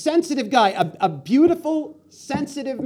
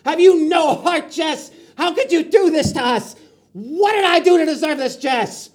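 hammed-up anguished pleading, louder and higher; mock heartbroken outburst; 4 semitones higher, 3 dB louder than usual. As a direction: wail at your friend like a betrayed lover. Mock heartbroken rant at friend.

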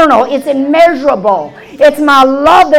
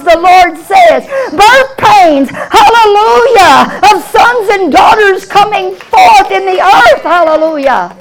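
preaching at full force; 3 semitones higher than usual. Acted. Preacher crying out to the congregation, full force preaching.

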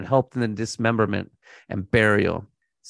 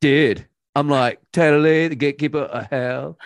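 lightly voiced laid-back surfer dude; 2 semitones higher than usual. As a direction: toss it off like a chill surfer. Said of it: "a cool surfer dude voice".

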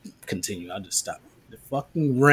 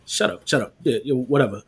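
mock dismissive cut-off. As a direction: brush them off dismissively. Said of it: "I get really dismissive".

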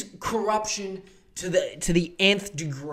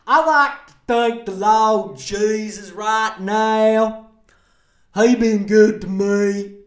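pious contest winner; 4 dB louder than usual. Pretend. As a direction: testify like a grateful winner on stage. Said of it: "winner of The Voice, thanks Jesus".

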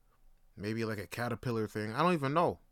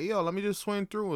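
chill alien; 7 semitones higher than usual. Retold or imitated. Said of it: "the alien's talking like that".

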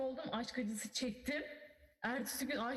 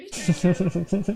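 loud exclamation; 4 semitones lower, 17 dB louder, slower than usual. Real, not acted. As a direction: burst out loud and slow.

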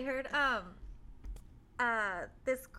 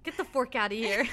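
shouting at trespasser; 8 dB louder than usual. Pretend. Pretend yelling at the kid.

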